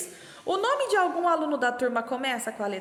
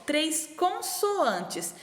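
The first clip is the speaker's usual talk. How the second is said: slow clue reading; 4 semitones higher, much slower than usual. Shown as a demonstration. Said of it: "outra coisa que fala aqui".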